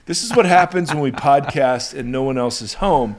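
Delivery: laughing while being tickled. Real, not acted. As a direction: talk through giggles as someone tickles you. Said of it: "Seth is now tickling me".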